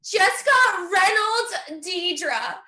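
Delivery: slow, laughing-teary twins news; giddy and overwhelmed, drawn out; laughing, half-crying excitement. Acted. Woman telling her sister about twins, laughing and teary. Pregnant friend announces twins.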